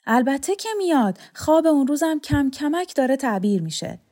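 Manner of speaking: a hint of an old man sure of his dream; hopeful old man. A narrator's reading. Old man believes the hero will come, lightly voiced hope.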